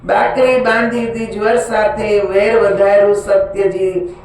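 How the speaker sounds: even, singsong metrical reading; rhythmic scripture recitation; devotional verse recitation. Acted. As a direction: recite each couplet in a steady repeating cadence.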